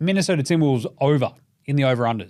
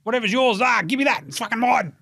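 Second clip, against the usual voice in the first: put-on higher, squabbling kid-brother voice grabbing the ball; bratty little brother; 8 semitones higher than usual. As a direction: play a whiny younger sibling fighting over a toy. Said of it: "like the fucking baby squid fighting with his big brother".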